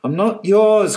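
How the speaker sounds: put-on girl crying out defiantly as she runs; cried out. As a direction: throw it back over her shoulder. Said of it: "cried our Iris".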